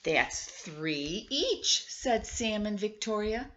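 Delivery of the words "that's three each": put-on slow, drawn-out counting like kids; children counting. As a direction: stretch it out, savoring each word. Children count shared cookies.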